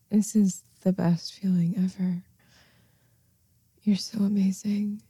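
unvoiced contented whisper; soft afterglow whisper. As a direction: whisper it dreamily.

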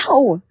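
a short loud "ow" of pain; sharp cry of pain. Acted. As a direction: yelp as if just smacked. Acted pain from a spanking.

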